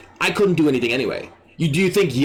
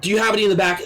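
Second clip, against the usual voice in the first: lightly voiced higher customer; mock customer, pitched up; customer's question; 5 semitones higher, much faster than usual. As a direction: ask a clerk in a higher voice. Acted customer asking staff.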